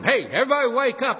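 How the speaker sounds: loud, fast wake-up call across the hills; David calling out to wake the whole camp. Retold or imitated. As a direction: rouse a sleeping camp from far away. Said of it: "he calls out to them".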